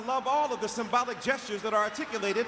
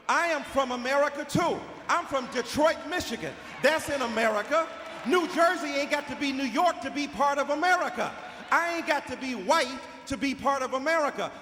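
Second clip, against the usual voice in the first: impassioned shout; 2 semitones higher than usual. Real, not acted. Impassioned speech to audience.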